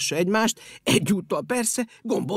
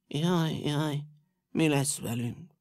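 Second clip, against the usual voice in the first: scared; 3 semitones lower, 3 dB quieter, slower than usual. Acted.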